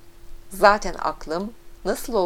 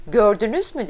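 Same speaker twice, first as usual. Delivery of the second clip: raised, louder gloating question; triumphant glee; 3 semitones higher, 6 dB louder than usual. A narrator's reading. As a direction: pounce on it in triumph. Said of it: "sevinçle güldü". (sevinçle, zafer kazanmışçasına)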